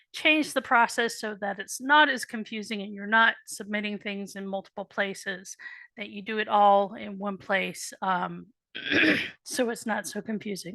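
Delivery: hoarse, fading voice; strained voice that keeps giving out; losing voice. Real, not acted. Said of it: "I'm losing my voice".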